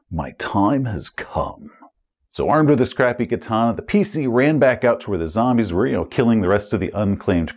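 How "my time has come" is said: slow, soft, lowered hero voice; solemn hero. Acted. Cameraman finding his destined sword, a hint of solemn hero. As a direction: intone it like a prophecy fulfilled.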